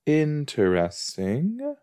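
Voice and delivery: slow, rising "Interesting."; drawn-out interesting. Shown as a demonstration. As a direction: stretch "Interesting" out slowly with a rise.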